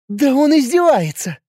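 high, loud indignant cry; outraged that he mocks them. A girlfriend is outraged at the hero's joke, indignant. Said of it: "возмутилась Юля".

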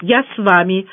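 ordinary delivery, nothing marked

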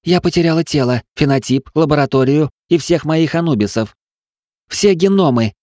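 high, loud furious outcry; crying out in fury. A narrator's reading. Evelin to her mentor, outraged shouting. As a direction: hurl the losses out in rage. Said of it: "выкрикнула Эвелин".

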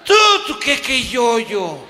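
high, loud stuttering tú tú; too shocked to form words; choking on panic; panicked stammer. Retold or imitated.

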